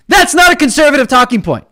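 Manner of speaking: shouting down the critics; angry shout. Real, not acted. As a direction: fire it back at them. Angry rant against critics.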